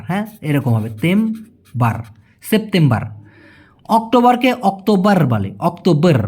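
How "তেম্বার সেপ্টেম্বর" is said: সেপ্টেম্বর with a soft dental t instead of a hard T. Shown as a demonstration. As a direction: soften the t in সেপ্টেম্বর. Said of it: "টি এর জায়গায় শুধু ত হবে". (সেপ্টেম্বর শব্দে ট নয়, নরম ত)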